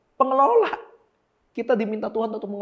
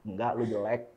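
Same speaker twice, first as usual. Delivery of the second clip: soft devil taunt; 8 semitones lower, 8 dB quieter than usual. Pretend. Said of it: "Koko pura-pura jadi iblis".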